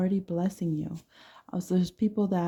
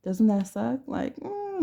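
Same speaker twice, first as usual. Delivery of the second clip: usual speaking voice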